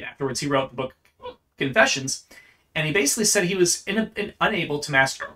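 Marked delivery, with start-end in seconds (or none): 2.7-5.3 talking through hiccups; words broken by hiccups. Real, not acted. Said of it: "I'm hiccuping like crazy right now".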